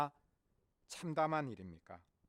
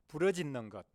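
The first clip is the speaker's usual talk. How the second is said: ordinary talk, nothing marked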